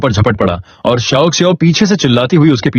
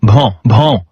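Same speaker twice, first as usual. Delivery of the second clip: puppy barking; 2 semitones lower than usual. Acted. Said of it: "माओ माओ उछलता हुआ भौंका".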